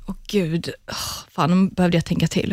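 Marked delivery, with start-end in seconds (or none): 0.1-0.9 soft unvoiced gasp of dread; whispered oh god. Real, not acted. Guest overwhelmed by the question, soft whispered sigh. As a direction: whisper it under your breath. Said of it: "whispered reaction to question".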